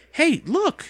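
high, sudden call of discovery; excited cry. A narrator's reading. Boy sees the lid pop off, excited high cry. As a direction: leap up in pitch to grab attention. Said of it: "he cried".

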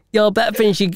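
faltering Southern American accent; badly faked redneck American accent; rednecky American accent. Shown as a demonstration. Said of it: "like, really rednecky".

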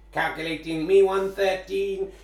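slow, flat computer voice; robot voice. Pretend. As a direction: read it out like a machine. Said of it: "Robot Voice?".

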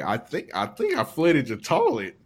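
imitating a calm, matter-of-fact admission; mock-calm owning up, no extra volume; calm confession. Retelling the co-host's toilet confession, mock calm. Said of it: "He just said it calmly".

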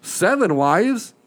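slow, high disbelieving repeat; astonished echo. Retold or imitated. Caller repeating back in disbelief, slow and high. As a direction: drag out the disbelief.

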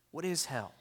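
usual speaking voice

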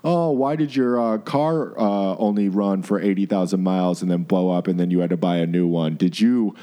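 low, needling know-it-all; lightly voiced condescending mechanic. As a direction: lightly put on a judgmental mechanic lecturing a customer. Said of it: "asshole that's like".

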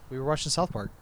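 casual, offhand retelling; unbothered, matter-of-fact answer; nonchalant. Retold or imitated. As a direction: toss it off like it's nothing. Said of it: "just nonchalant".

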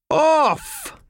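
very high, loud one-word command; sharp command. Acted. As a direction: bark it as a final order. Boss repeating his order.

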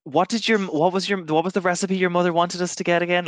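high, loud put-on accent; sweet wifely question in Ivar's accent; wife asks husband about a recipe in a put-on accent. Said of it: "put on this, like, a voice that's more similar to Ivar's".

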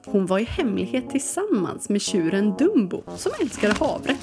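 storytelling read-aloud over music; story narration. Acted. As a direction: read it like a children's tale.

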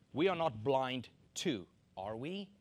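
gentle, mild question; said nicely. Shown as a demonstration. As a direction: ask it politely, no edge. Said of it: "Now, I said it nicely".

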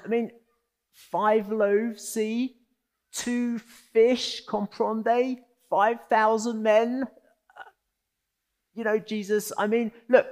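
high, flustered disbelief; incredulous disciples. Retold or imitated. Disciples balking at Jesus' command to feed five thousand. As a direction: protest in comic disbelief. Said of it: "imagine these disciples going".

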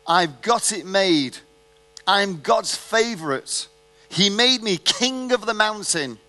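mildly hammed boast of God's favourite; mock boastful crowing. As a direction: crow it like you've got it made. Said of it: "I crowed".

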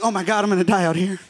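fast, panicky imitation of himself; mock panic. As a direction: rush it like a man losing it. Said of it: "panic attack".

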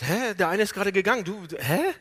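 astonished. Retold or imitated. Father puzzled as a second son walks in, astonished. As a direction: act out mock bewilderment. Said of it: "weil Jakob erstaunt ist".

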